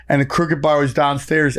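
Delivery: ordinary talk, nothing marked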